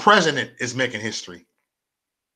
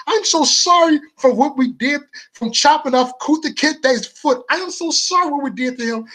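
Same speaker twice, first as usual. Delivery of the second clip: mock white liberal; 12 semitones higher than usual. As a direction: gush apologies in hammed-up guilt. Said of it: "You got 'em over here like".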